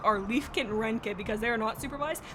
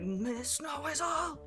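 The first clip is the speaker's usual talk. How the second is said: mock villain wail; 6 semitones higher, 4 dB quieter, slower than usual. Shaking fist to the sky.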